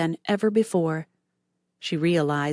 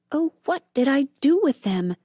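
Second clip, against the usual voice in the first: high, frantic inner cry; panicking over lost keys, high; 8 semitones higher, 3 dB louder than usual. A narrator's reading. Nancy hunting for the keys, frantic. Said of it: "she thought frantically".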